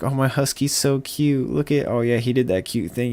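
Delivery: lightly mocking a cooing dog owner; mocking husky owner. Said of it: "Everyone does these videos like".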